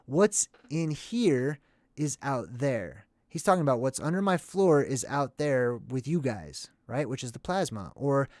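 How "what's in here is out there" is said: very slow, deliberate and matter-of-fact; rational thinker's reading. Shown as a demonstration. Vlogger rereads the line for viewers, slow and rational. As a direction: say it as a sane, reasoned statement. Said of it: "but from a rational thinker's perspective".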